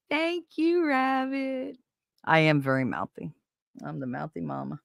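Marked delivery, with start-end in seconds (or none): 0.1-1.8 high laughing thank-you. Real, not acted.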